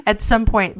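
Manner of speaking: words bubbling up between real laughs; laughing as she tells the pipes will crumble; laughing through it. Real, not acted. Sharing a joke with her co-host, laughing while she talks.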